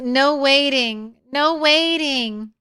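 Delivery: lightly voiced pet cat, slow and insistent; cat's voice. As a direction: speak for the cat, pleading slowly. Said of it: "Kitty says".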